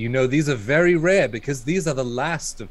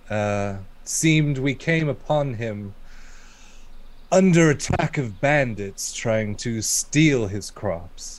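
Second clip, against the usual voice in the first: fancy formal talk. Acted. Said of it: "stop your fancy talk".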